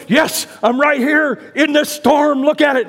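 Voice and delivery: loud, slow, high reporter yelling over the wind; storm reporter shouting. Retold or imitated. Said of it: "he's going".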